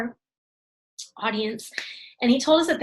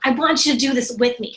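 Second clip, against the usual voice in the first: with enthusiasm. Shown as a demonstration. Coach showing how to invite a friend, enthusiastic. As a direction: sell it like you're loving it. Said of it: "you say it with enthusiasm".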